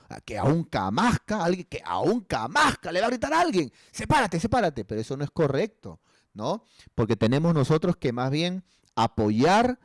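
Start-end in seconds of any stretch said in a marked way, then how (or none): 0.1-4.8 proud family. Retold or imitated. Proud family, offended ego.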